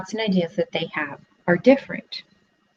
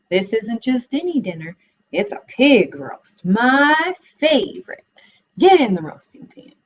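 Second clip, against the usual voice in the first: relishing; 4 semitones higher than usual. Acted. Fox savoring his pig roast.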